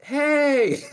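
high, loud "hey" yell; yelled callback. Retold or imitated. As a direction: holler it back across a parking lot. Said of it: "someone yells back".

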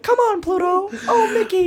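very high quacky cartoon voice; Donald Duck. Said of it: "I do a Donald Duck pretty good".

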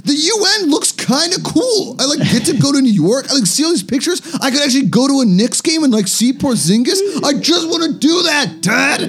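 put-on very high, excitable boy voice; Kim Jong-un. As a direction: gush like a starstruck kid, then whine at Dad. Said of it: "He's like".

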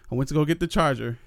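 breathless, panting between words; out of breath. Real, not acted. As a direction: talk while still winded. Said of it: "you hear me, I'm out of breath".

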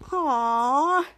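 drawn-out disappointed "aww"; play-acted moan of dismay; upset groan. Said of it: "Piper's all upset".

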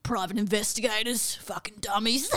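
a hint of a half-asleep boyfriend mumbling; drowsy, slurred sleep talk, lightly done; imitating a mumbled sleep-talk line; sleepy mumble. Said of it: "he started mumbling".

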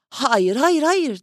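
put-on old man cries hayır, hayır, hayır, building up; cry of refusal. A narrator's reading. Old man refuses the mother's money, a building cry of protest. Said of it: "diye bağırdı adam".

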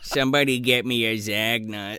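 low, put-on deathbed plea; mock dying man. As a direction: play a dying man's final request, pitched low. Continues the shot man's last words.

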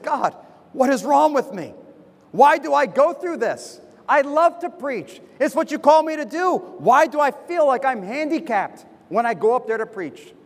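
pleading prayer. Retold or imitated. Preacher retelling his prayer about struggling to preach, pleading. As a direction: plead upward, retelling your own frustrated prayer.

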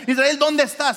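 high, loud call by name; shouted call. Acted. God calling out to Israel, loud high shout. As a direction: call out as if across a distance. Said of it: "Si te pudiera gritar".

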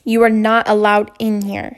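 a touch of cold, flat tone; a boy coldly telling his teacher to leave. Acted. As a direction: say it coldly, shutting her out. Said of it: "he said coldly".

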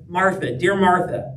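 gently affectionate "Martha, dear Martha"; tender, not scolding. Shown as a demonstration. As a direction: soothe without any reproach. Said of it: "This is not a scolding".

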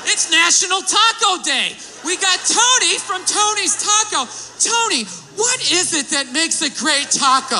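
perky TV host intro; chirpy host interviewing a guest; morning show host. Retold or imitated.

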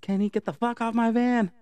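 high, loud hammed-up yell; mock yell. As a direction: Gail shrieks at the body on her van. Gail yells at the body.

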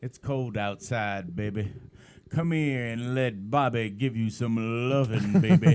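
a hint of a crooning ladies' man; sleazy seducer. Co-host plays a man coaxing her to stay, sleazy seducer.

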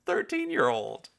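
real laughter through the words; laughing. Real, not acted. Talking to viewers about his teen self, laughing. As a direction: still cracking up. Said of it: "laughing at himself".

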